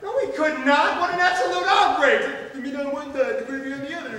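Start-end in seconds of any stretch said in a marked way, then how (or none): 0.0-2.5 high, loud theatrical protest; indignant outrage. Acted. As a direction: protest as if mortally offended. Butler outraged at table layout.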